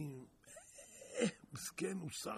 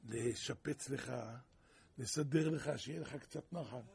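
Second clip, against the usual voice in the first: king's men calmly explaining to the prisoner, lower; lightly voiced messengers; 4 semitones lower than usual. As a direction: speak down, low and even, a hint of officials.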